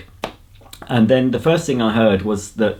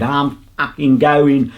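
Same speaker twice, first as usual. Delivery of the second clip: mock huffy walkout; 4 semitones higher than usual. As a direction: imitate an annoyed woman storming off. Acting out woman's angry walkout.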